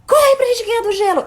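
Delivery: playful calling. Retold or imitated. Mother calling playfully to toddler in the rain, high and loud. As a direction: call out to her like it's a game.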